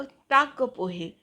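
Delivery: calling out to the kitchen. Retold or imitated. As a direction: call out to the kitchen for snacks. (स्वयंपाकघरात हाक मारल्यासारखं)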